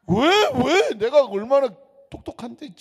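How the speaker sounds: high, loud mock protest; mock indignant retort. Pastor answering the church member's jab, mock indignant.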